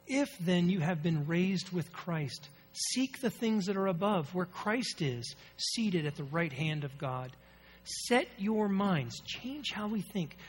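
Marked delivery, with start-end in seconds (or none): 0.1-7.3 scripture reading. Real, not acted. Reads scripture aloud, slow.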